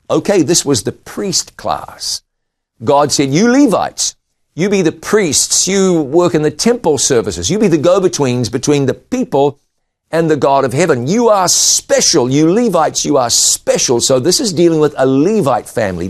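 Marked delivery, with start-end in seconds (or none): 3.3-14.0 raised, proclaiming voice of God; voicing God. God telling the Levites they are special, lightly voiced. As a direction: announce it like God choosing his priests.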